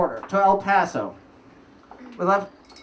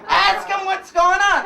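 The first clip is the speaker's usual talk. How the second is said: high, slow laughing line; real laugh breaking through the words; 9 semitones higher, slower than usual. Real, not acted. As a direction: say it while still laughing.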